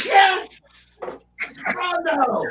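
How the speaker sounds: high excited yelp; excited cheer. Real, not acted. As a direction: cheer it with delight. Excited reaction to drink.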